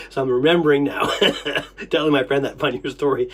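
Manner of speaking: amused telling broken by laughs; about to burst laughing. Real, not acted. Telling a friend the funnier story, close to bursting out laughing. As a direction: let chuckles break into the story. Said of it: "I'm about to bust out laughing".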